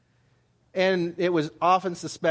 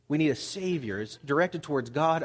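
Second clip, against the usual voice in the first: ordinary talk, nothing marked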